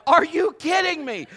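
high, loud, incredulous cry; fed up at the drive-thru for the third time; exasperated disbelief. Retold or imitated. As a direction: throw up your hands in mock disbelief. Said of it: "I am like".

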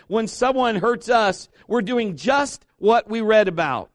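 high, emphatic preaching voice; forceful preaching. Real, not acted. Preacher proclaiming forgiveness to the congregation, forceful preaching. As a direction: drive it home to the congregation, weighty and emphatic.

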